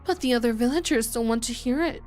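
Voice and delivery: a hint of a conspiratorial nurse; Takano voice. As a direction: confide a dark secret in hushed glee. Voicing Takano character.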